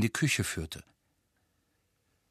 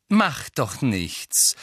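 slightly annoyed; 3 semitones higher, much slower than usual. Acted. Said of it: "mit leicht ärgerlichem Unterton".

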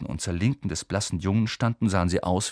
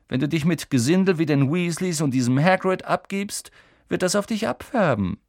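high, louder, cold menace; threatening Malfoy; 8 semitones higher, 4 dB louder than usual. A narrator's reading. Malfoy threatens Harry about his parents, menacing. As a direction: warn him off with contempt.

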